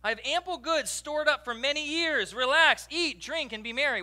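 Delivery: mock gleeful retiree; hammed-up rich man. Shown as a demonstration. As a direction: play the verse up as a gleeful boast. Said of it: "You know what we call this?".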